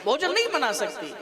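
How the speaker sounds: hammed-up husband telling his wife off for show; mock angry husband. Husband pretends to scold wife so the guest leaves, mock anger. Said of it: "अब पति देव भी भड़क रहे".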